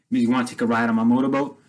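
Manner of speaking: fast, taunting spoiled-brat imitation; a light imitation of the spoiled rich kid showing off; mock spoiled rich kid. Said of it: "this white, spoiled rich kid".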